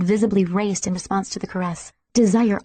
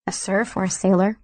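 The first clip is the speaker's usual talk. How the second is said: dry mocking reply; a light sardonic jab. A narrator's reading. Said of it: "he said sardonically".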